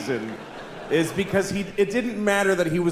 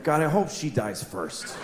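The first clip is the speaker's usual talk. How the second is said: quiet private thought; 3 semitones lower, 6 dB quieter than usual. Retold or imitated. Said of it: "I always think".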